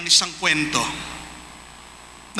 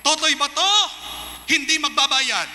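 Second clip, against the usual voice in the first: higher, pushy bully yelling at the conductor; hammed-up brute shouting, higher; mock bully shout; 5 semitones higher than usual. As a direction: act out a big brute barking at the conductor. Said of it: "pero sinigawan siya".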